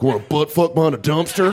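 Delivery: hissed through gritted teeth. Pretend. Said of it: "it's like through their teeth".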